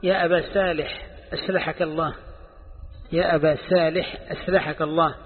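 أسلحك said with s for ص, aslahak; teasing the shaikh by swapping ص for س; mock lisp. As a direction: say أصلحك as أسلحك, s in place of sad. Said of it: "فاقترب منه وقال".

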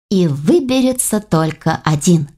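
slow, ominous movie trailer voice; horror trailer announcer. Acted. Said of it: "голосом диктора, рекламирующего фильм ужасов".

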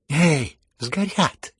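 high, loud urgent shout. A narrator's reading. Heroine yelling at Ganya as the money burns, shouting. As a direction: call out high, dragging out the warning. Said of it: "кричала ему Настасья Филипповна".

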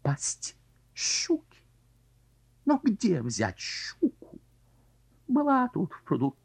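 whispered doom. Acted. Carp's despairing monologue.

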